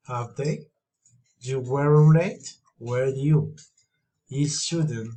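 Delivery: statement first, then a distinct tune on "have they"; short tags like "do you" set apart with their own pitch turn; tag question tune. Shown as a demonstration. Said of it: "feeling or rising intonation".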